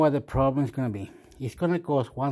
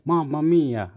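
hammed-up Italian "Mamma mia", a bit louder; mock Italian exclamation; 3 semitones higher, 5 dB louder than usual. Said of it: "Every time I talk, it's like".

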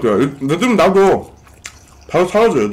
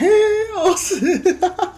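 squealing laugh. Real, not acted. Embarrassed after dialect attempt.

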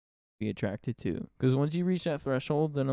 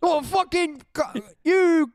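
high rage yell; 13 semitones higher, 4 dB louder, slower than usual. Pretend. Acted gamer rage.

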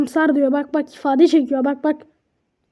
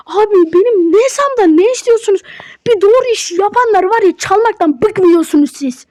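higher-pitched indignant rant at thieves; indignant scolding; 4 semitones higher than usual. Real, not acted. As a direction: tell the thieves off, fed up. (hırsızlara sitem eden isyankâr ses)

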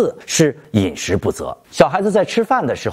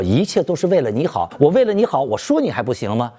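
put-on old-school parent; 4 semitones higher than usual. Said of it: "就老一辈父母是因为他有这样一个想法".

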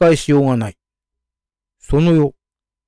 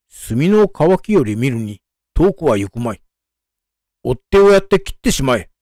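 fast, rising angry command; angry order. Acted. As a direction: snap out the order in anger. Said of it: "家久怒りを発して".

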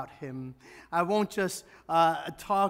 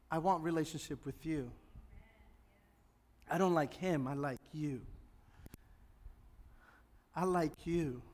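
voicing God tenderly. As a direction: speak as God, gently longing. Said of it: "when God says".

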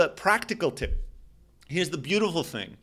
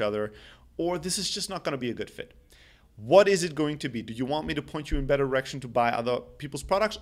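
calm and collected. Shown as a demonstration. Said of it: "here's my reaction".

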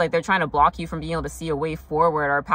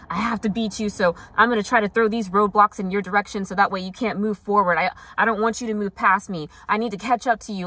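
insistent rival, pitched higher; lightly voiced rival; 4 semitones higher than usual. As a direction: lightly act out someone desperate to win. Voices a desperate competing rival.

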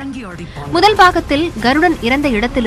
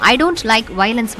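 quoted punch line; much slower than usual. Shown as a demonstration. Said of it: "Yash பேசும்".

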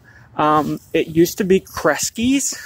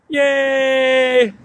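cheerful yay; 7 semitones higher than usual. Real, not acted. Cheering at the courthouse.

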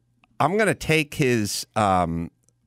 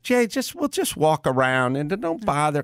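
himself, retold; 5 semitones higher than usual. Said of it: "I'm like".

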